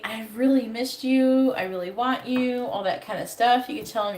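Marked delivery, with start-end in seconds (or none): 0.0-2.6 slow sincere. Shown as a demonstration. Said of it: "So if you can say".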